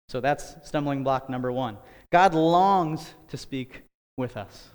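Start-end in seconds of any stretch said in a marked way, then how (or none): 2.1-4.7 breathless, winded delivery; out of breath. Real, not acted. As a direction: speak while out of breath. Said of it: "Sorry, I'm out of breath".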